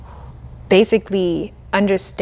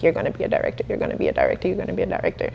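quiet self-talk; 5 dB quieter, much faster than usual. Retold or imitated. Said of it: "I was just like".

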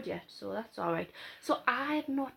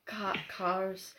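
put-on Scottish accent; slower than usual. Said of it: "do each other's accents".

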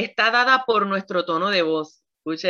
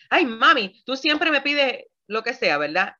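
put-on whiny child; 4 semitones higher than usual. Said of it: "me dice".

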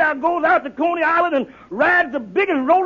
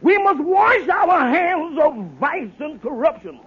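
orate to the crowd like a politician; hammed-up stump speech; soapbox speech. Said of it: "I stood on that soapbox and I said".

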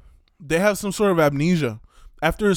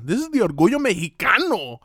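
proud shout; 4 semitones higher than usual. Retold or imitated.

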